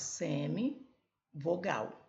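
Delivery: semivogal with a long drawn s; stretched word. Shown as a demonstration. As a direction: draw out semivogal, s held long. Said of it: "Vogal são mais fracas".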